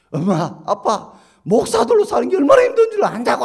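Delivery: very high, loud, cracking cry of protest; anguished shout. Retold or imitated. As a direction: yell it out at mom and dad. Son shouts back at parents. (아들이 부모에게 울부짖듯 외치기)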